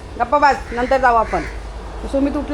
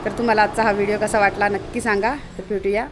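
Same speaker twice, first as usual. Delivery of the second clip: lower, softer talk to the camera; vlog outro; 4 semitones lower, 5 dB quieter than usual. Acted. Woman closing her vlog to her viewers, lower and softer. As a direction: wrap up the video for viewers.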